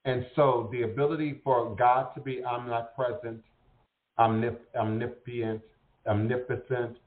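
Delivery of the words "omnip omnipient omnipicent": stumbling over "omnipotent", restarting it with muddled syllables; tongue-tied. Real, not acted. Speaker listing God's attributes to listeners, tongue-tied. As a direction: trip on "omnipotent" and try it twice. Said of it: "I get tongue-tied".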